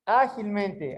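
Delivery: "Agilmente" at word speed, A strongest; stress on first syllable. Shown as a demonstration. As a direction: lean on the opening A of "Agilmente". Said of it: "Aonde tem o som mais forte". ("Agilmente" com o primeiro A mais forte)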